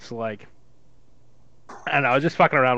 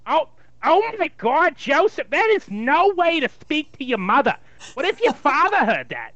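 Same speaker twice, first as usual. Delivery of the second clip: put-on higher scolding Jewish mother accent; 5 semitones higher than usual. Jewish mother scolds her son for his rudeness, in a higher Jewish accent. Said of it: "a Jewish mother".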